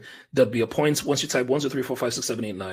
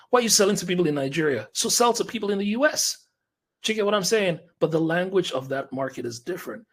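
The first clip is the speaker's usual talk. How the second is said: higher pitched, rapid, breathless push at the end; fired-up rant; 4 semitones higher than usual. Real, not acted. Coach pressing a client to sell to the US, fired up and breathless. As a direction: pour it on until you run out of air. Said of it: "Whew, I'm out of breath".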